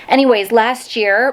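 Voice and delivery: breathless restart; out of breath. Real, not acted. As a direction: talk through heavy breaths. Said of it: "I'm out of breath".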